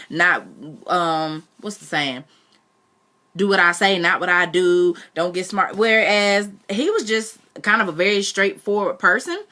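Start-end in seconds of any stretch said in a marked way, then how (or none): 3.4-5.7 mock stern parent, punchy and louder; a parent shutting down a back-talking child; scolding parent. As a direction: lay down the law like an old-school parent.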